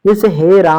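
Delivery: हे राम with the vowel held long; prolonged call. Shown as a demonstration. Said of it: "उसमें हम लोग प्लुत का use करेंगे".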